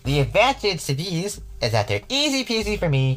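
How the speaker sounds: gloating voice from the darkness; sinister voice. Acted. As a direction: savour every grim option, toying with her.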